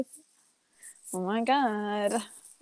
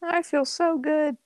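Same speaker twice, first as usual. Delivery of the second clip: mock woozy; 5 semitones higher, slower than usual. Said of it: "mocking her story".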